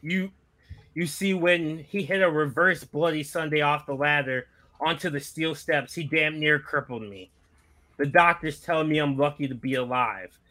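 lightly voiced veteran wrestler's promo; a modest attempt at a battle-worn wrestler; Terry Funk. Host attempting a wrestling legend's promo for friends, lightly impersonated. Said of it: "trying to do a Terry Funk impression".

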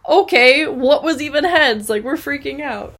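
high-pitched imitation of panicked friends; mock panic. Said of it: "they're, like, panicking".

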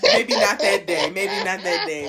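laughing. Real, not acted. Laughing self-correction.

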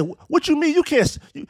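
offended stammer. Retold or imitated. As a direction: sputter like you've been insulted. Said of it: "She got upset".

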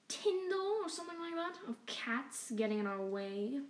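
lightly voiced menacing opossum king; sneering villain voice. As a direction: purr out threats, mock polite. Rat King speaks to cats.

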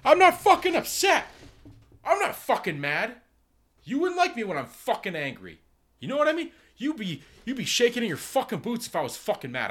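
high, strained comic rant; hammed-up screaming denial of anger; mock furious yelling. Customer yelling at a worker with no irony, mock-furious high yell. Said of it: "yelling, and you go".

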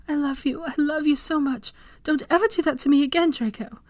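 high, pressing scolding; stern tearful admonishment. A narrator's reading. Hermione scolds Draco for nearly dying, high stern plea. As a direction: scold him while crying with relief. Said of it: "her stern admonishments".

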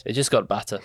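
lightly put-on Scottish accent; deadpan mock Scots. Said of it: "That's a really good Scottish accent".

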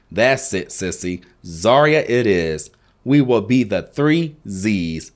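excited shout. Acted. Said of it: "shouted Zarya excitedly".

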